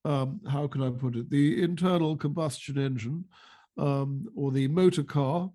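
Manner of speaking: put-on slow, fussy old-fashioned MP; lightly voiced Rees-Mogg; Jacob Rees-Mogg impression. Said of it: "Jacob Rees-Mogg".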